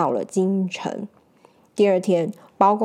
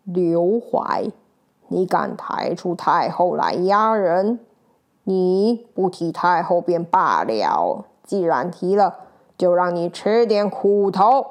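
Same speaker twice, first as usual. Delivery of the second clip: cold sneer; 3 semitones lower, slower than usual. Acted. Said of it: "冷笑说".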